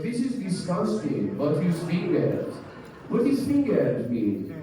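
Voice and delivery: put-on slow, appalled mother with accent; disgusted mom. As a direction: recoil like an offended mom. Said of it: "she was like".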